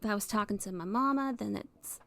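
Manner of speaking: easy, homey Southern twang; gentle Southern accent, as if talking to mama. Shown as a demonstration. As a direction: slip lightly into a Southern accent. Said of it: "slip into a Southern accent".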